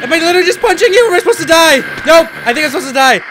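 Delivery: fast, loud, high-pitched confusion; flustered panic. Real, not acted. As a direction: blurt it out in the thick of a fight. Confused mid-attack.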